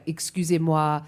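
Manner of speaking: a lightly put-on French accent, voice dropping at the end; Scottish words played in a French accent; a playful imitation in a light French accent; mock French accent. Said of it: "in a French accent".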